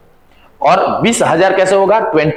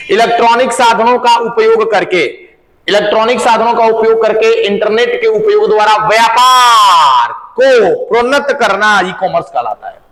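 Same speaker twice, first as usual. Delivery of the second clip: raised-pitch, deliberate dictating voice; dictation; 3 semitones higher than usual. Real, not acted. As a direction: dictate a definition for students to copy. Dictates a definition to class.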